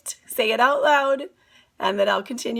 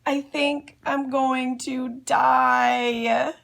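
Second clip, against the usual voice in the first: yelling; 4 semitones higher, slower than usual. Acted. Andrew smeared with lipstick, hammed-up dramatic despair. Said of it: "yelled Andrew".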